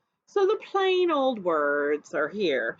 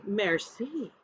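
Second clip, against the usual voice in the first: a soft, dainty "Merci" in French; curtsy and say "Merci" in French; 3 semitones lower, 5 dB quieter than usual. Acted. She curtsies and thanks the waiter, soft French. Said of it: "I curtsy and say".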